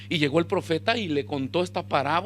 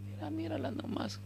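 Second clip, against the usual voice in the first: very soft, high-pitched aside; hushed blaming; 8 semitones higher, 14 dB quieter than usual. Acted. Adán answers God by pointing at the woman, hushed. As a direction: pass the blame almost under the breath.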